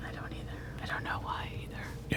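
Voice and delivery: puzzled, hushed whisper; voiceless and secretive. Real, not acted. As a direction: whisper it back, very softly. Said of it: "Why am I whispering?".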